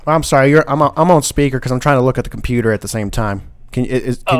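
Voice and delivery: far from the mic; speakerphone, a mile away. Real, not acted. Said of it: "sounds like you're, like, a mile away".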